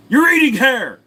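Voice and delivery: high, loud cartoon-baby outburst; Stewie. Baby bursts out at Brian, high cartoon yell. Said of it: "Can I do Stewie from Family Guy?".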